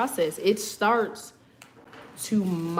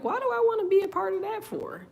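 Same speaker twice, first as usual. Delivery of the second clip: incredulous; 12 semitones higher than usual. Retold or imitated. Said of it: "You're like".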